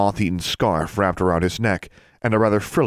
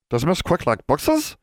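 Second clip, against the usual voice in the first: high, slow elf voice; hopeful elf; 10 semitones higher than usual. A narrator's reading. Elf asking a student about books, hopeful. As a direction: ask it timidly hoping for a yes. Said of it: "Bran asked hopefully".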